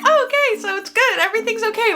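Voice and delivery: gushing with sudden relief; relieved gush. Retold or imitated. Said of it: "I was like".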